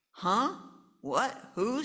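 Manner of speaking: high startled confusion. Acted. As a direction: jolt awake, confused. Parents startled.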